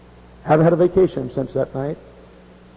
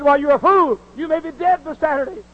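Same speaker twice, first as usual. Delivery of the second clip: higher, exasperated doctor's rebuke; scolding doctor; 12 semitones higher, 3 dB louder than usual. Retold or imitated. Doctor scolding stubborn patient, higher exasperated rebuke. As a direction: tell her off as the doctor, pitched up.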